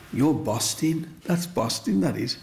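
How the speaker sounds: a hint of Black Country children; Black Country dialect. Kids praising him in dialect, light Black Country accent. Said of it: "In the black country, they'd say".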